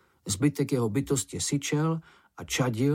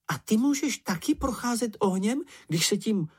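much higher, amazed little creature voice; Sniff, goggle-eyed; 11 semitones higher than usual. A narrator's reading. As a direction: ask it with eyes popping. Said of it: "s očima na šťopkách".

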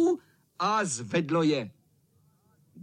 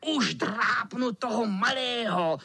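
menacing cat; 7 semitones higher than usual. A narrator's reading. Cat threatens the boys with his claws. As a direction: savour each threat.

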